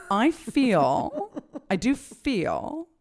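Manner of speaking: giggling through the words; laughing. Real, not acted. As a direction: laugh while you say it. Laughing while saying feelings.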